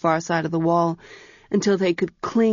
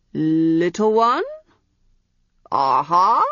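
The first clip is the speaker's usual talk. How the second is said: uncertain calling; 3 dB louder, slower than usual. A narrator's reading. Eunuch calling for hidden girl.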